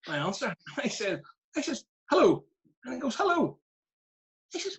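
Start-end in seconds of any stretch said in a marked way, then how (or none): 2.1-2.4 loud, high-pitched mock phone hello; exasperated answer. Manager answering his player's call, loud exasperated hello. 3.2-3.6 very high mock hello; clueless caller. Clueless player greeting his manager, high-pitched imitation.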